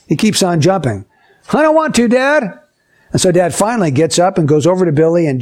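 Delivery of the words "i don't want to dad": higher-pitched mock protest of a little boy; defiant child. Little Billy refusing his dad at dinner, defiant child voice. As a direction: act out a kid refusing, pitched up.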